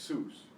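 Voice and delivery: "Jesus" as kheh-SOOS, stress on the end; Spanish pronunciation. Shown as a demonstration. Teacher modelling the Spanish name, "Jesus" as kheh-SOOS. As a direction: say "Jesus" with throaty J and long stressed "sus". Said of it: "that's where the stress is".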